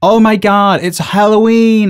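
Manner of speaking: high, mock-gushing squeal; mocking excited voice. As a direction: gush like an overexcited fan. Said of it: "And they're like".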